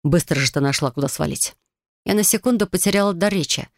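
plain reading voice

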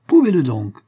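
cold contempt in a duel; sarcastic. A narrator's reading. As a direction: sneer the dare at him. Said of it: "une intensité de sarcasme indicible".

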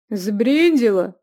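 loud, slow indignant outburst. A narrator's reading. Youth outraged at the innkeeper's price. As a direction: throw it back at her, outraged. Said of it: "возмутился юноша".

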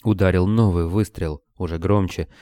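ordinary delivery

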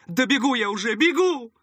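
high, loud hasty reply called back; high-pitched appeasing cry, rising on the repeat; placating underling. A narrator's reading. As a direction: answer placatingly while running off. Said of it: "примирительно отозвался удаляющийся голос первого".

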